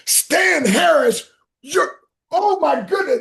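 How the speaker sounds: high, loud, slow delighted shout; loud overjoyed greeting. Retold or imitated. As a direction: shout the name with huge delight. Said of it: "this is how loud he is".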